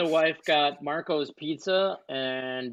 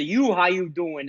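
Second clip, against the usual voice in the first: put-on Soprano accent creeping in; slower than usual. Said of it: "get a little bit of".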